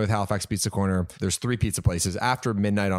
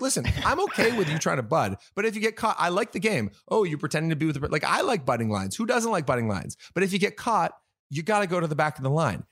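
retold yelling at cutter; 5 semitones higher than usual. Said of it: "I'm just yelling at this point".

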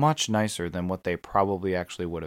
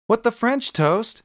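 high indignant yelp, up on French; outraged squeal at the rival; mock outrage; 13 semitones higher, slower than usual. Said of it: "so it goes".

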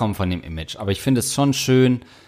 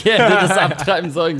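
laughing; 7 semitones higher, 4 dB louder, faster than usual. Real, not acted. Laughing punchline about abortion.

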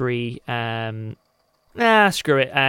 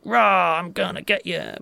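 mock scary monster; 3 semitones higher than usual. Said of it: "I want to be scary".

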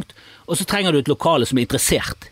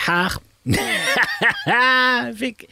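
laughing; 12 semitones higher than usual. Real, not acted. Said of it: "laughing at own failed jokes".

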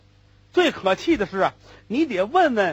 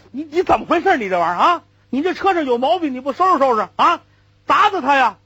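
loud, higher, scolding the puller; angry complaint; 5 semitones higher, 5 dB louder than usual. Acted. Angry passenger scolding the puller about the broken seat. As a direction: rattle off the complaint, fuming. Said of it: "把这主气坏了".

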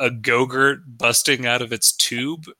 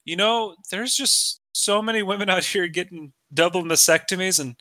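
mock Peterson; 6 semitones higher than usual. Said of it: "He was like".

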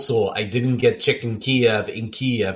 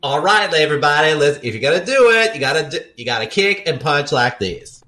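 a hint of a Southern fitness coach; pep it up like a Southern trainer; lightly voiced Southern aerobics instructor; Southern Richard Simmons; 4 semitones higher, faster than usual. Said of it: "When was Richard Simmons Southern?".

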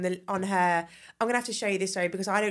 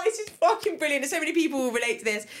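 usual speaking voice

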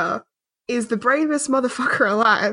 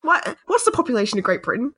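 incredulous outburst; 4 semitones higher than usual. Pretend. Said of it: "I would have an absolute, like, conniption".

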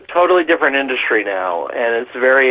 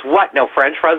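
snotty customer; 4 semitones higher than usual. Retold or imitated. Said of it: "this snotty attitude".

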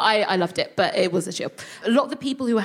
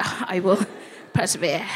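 laughing whisper; 2 semitones lower than usual. Retold or imitated. Resolve ends in whisper.

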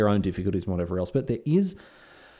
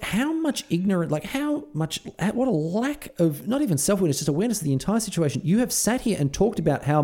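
incredulous outrage; 8 semitones higher than usual. Real, not acted. Outraged at the taxi driver's ignorance.

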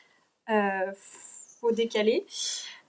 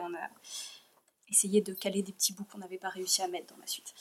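fast whispered aside; hurried whisper; 2 semitones lower, 10 dB quieter, faster than usual. Real, not acted. Speaker whispers an aside to the conference audience, hushed and fast. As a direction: drop to a quick whisper, as if sharing a secret.

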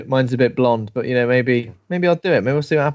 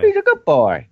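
high, lazy stoner voice; 4 dB louder than usual. Retold or imitated. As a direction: coo it like a spaced-out stoner. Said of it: "over-the-top stoner voice".

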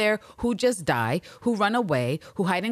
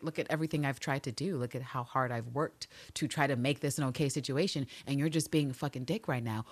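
Villanelle pleading; 4 dB quieter than usual. Retold or imitated. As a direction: go from shocked squeal to quiet wounded plea. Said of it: "And Villanelle's like".

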